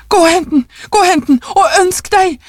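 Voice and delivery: high, frantic command; crying out, quivering with agitation. A narrator's reading. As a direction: urge repeatedly, pitch soaring. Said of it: "ropte konen".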